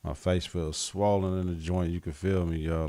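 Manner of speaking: numb mouth, spit in it; numb from the dentist. Real, not acted. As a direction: talk with half the mouth numb. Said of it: "one side of my mouth is numb".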